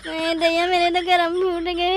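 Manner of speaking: slow, drawn-out mock sobbing lament; hammed-up wail. Bride learning of groom's lies, hammed-up wailing. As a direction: wail your ruined fate theatrically. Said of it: "अब ज्यादा भौंपू ना बजाओ".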